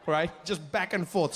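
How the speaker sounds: usual speaking voice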